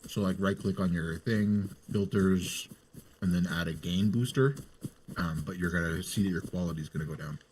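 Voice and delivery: talking through a mouthful of food; mouth full. Real, not acted. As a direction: speak round a bite of food. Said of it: "Sorry, my mouth was full".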